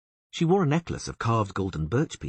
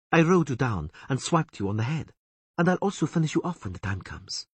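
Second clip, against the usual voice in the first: higher, mocking elf woman hissing; 8 semitones higher than usual. A narrator's reading. Elf woman taunting the bound Witcher, higher sneer. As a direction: taunt the bound man, pitched up. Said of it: "she said".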